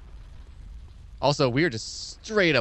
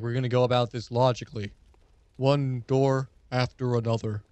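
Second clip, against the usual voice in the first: flashback voice. Retold or imitated. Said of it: "that's my flashback voice".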